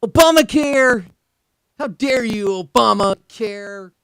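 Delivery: high, loud mocking cry; incredulous mock outburst. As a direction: blurt it out in disbelief. Mocking the president's complaint.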